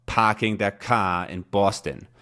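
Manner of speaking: slow Boston accent with dropped r's. Shown as a demonstration. Describing a car ad, lapsing into Boston accent.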